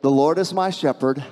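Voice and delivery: softening and dropping at the end; a calm spoken prayer; calm affirmation. Shown as a demonstration. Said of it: "you need to pause and say".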